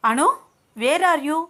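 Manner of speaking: high, loud, slow worried cry; anxious. A narrator's reading. Abhiram on the phone to missing Anu, anxious high call. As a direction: call out to her in panic. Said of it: "అని అన్నాడు కంగారుగా".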